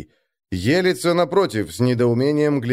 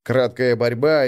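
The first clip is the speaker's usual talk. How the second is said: usual speaking voice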